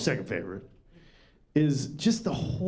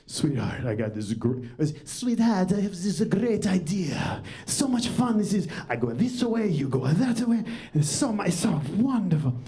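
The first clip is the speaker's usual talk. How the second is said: a light put-on sweet-talking voice; lightly voiced eager boyfriend; smooth boyfriend; 3 semitones higher than usual. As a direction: coax her with a silly pitch. Man pitching idea to girlfriend.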